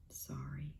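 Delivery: lion grudgingly apologising to Marabou; grumbled apology. A narrator's reading. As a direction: mutter a grudging sorry under breath. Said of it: "grumbled the big bald cat".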